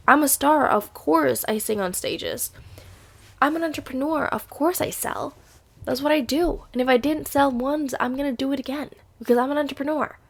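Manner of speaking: confident affirmation; self affirmation. Real, not acted. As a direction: hype yourself up as a star.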